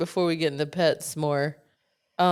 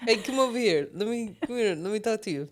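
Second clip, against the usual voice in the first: higher, Russian-sounding goat voice; goat impression; 3 semitones higher than usual. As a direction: talk like a shady goat selling milk. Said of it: "that is my goat impression".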